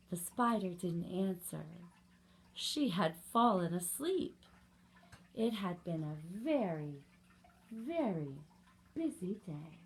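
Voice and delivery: measured storybook ending, with pauses; reading to children. A narrator's reading. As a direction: tell it gently paced for little ones. Reads picture book to children.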